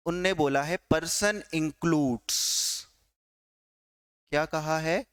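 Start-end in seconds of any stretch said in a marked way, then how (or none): 0.9-2.9 slow, word by word, so they can write person includes; slow dictation. Shown as a demonstration. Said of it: "थोड़ा fast note down कर लीजिए".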